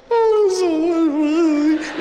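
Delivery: high, loud, slow mock-gushing mother; hammed-up high mother's delight; gushing mom. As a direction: swoon over the gift like a touched mom. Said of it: "Mom says".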